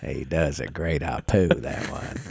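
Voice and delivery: slow dim drawl like Forrest Gump. Acted. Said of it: "now you're starting to sound like Forrest Gump".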